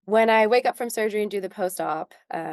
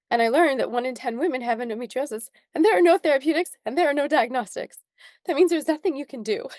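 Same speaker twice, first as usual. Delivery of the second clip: higher-pitched, tearful telling; real crying; 4 semitones higher than usual. Real, not acted. Guest recounting a devastating diagnosis to host, crying. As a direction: push on through real tears. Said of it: "I'm really sorry that I'm crying right now".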